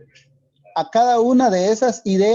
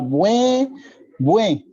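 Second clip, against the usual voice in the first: a lightly acted little sob, bue bue; teacher reading a comic, voicing the girl's mild mock sob; mock sobbing. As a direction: play the girl crying, understated. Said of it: "Y la niña ahí llora".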